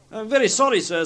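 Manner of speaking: high, apologetic clerk's voice; meek clerk. A narrator's reading. Bob caught late by Scrooge, meekly apologising.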